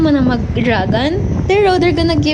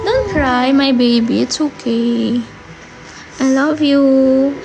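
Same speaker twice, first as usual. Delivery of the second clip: comforting; 2 semitones lower, slower than usual. Real, not acted. Iko-comfort ko ng aking bebe.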